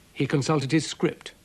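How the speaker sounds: plain reading voice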